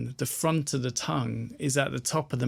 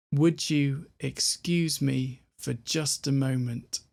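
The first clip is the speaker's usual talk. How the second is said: slow full phrase. Shown as a demonstration. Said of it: "what have we got all together?".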